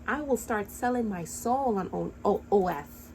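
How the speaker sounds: stuttering from anger; angry stutter. Real, not acted. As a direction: trip over the letters in anger. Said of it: "Got me so mad I'm stuttering".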